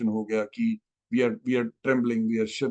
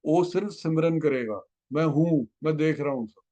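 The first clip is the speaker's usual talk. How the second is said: lightly voiced guru giving calm assurance; Guruji's voice; 2 semitones higher than usual. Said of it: "गुरुजी तंग कर रहे हैं".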